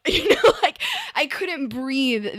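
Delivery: high burst of laughter through the words; laughing. Real, not acted. Guest laughing while recalling the surgery pain.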